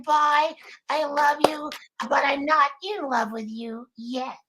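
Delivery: high, steady sleepy sleepover voice. Shown as a demonstration. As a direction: read it out in a sleepy little put-on voice. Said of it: "in the sleepy over voice".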